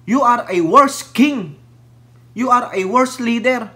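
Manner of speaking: slow, loud "worse" hit hard; scolding a former president, loud and slow. Real, not acted. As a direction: tell him off slowly, leaning on worse. Scolding Duterte directly.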